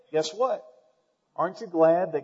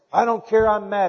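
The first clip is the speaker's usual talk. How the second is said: mock angry spouse; 6 semitones higher, 9 dB louder than usual. Spouse refusing apology, acted quote.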